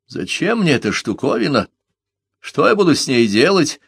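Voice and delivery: put-on an old man's voice wavering as he speaks; quavering old voice. A narrator's reading. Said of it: "дребезжащим голосом".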